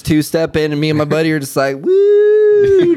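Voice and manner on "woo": high, loud whooping woo; party woo. Retold or imitated. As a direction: whoop it up like at a bar. Partying with buddy, country bar.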